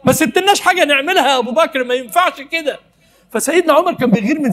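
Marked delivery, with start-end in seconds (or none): 0.0-2.8 Umar complaining. Acted. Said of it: "سيدنا عمر بيقول لسيدنا أبو بكر".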